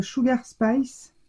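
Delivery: put-on slow, careful English accent on a brand name; French speaker putting on her best English accent; playful English accent, slightly slowed. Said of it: "avec mon accent English".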